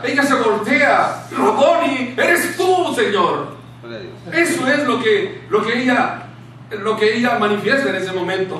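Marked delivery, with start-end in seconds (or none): 1.4-3.6 acted-out astonished greeting; amazed recognition. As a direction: exclaim it as sudden realisation, pitch leaping up. Acts out Mary recognising Jesus.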